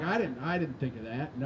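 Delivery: low, soft, stammered admission; sheepish son. Retold or imitated. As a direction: shrink back as the scolded kid. Chastened son answers raging mother.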